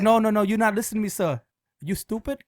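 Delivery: lightly put-on Asian accent, insistent; mock Asian accent. Fake car wash owner scolding the customer, mock Asian accent. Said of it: "There's no Asian guy that owns".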